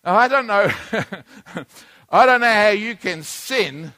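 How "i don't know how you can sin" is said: laughing. Real, not acted. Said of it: "laughs at the idea".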